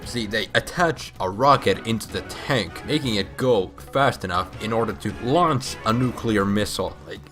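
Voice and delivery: ordinary talk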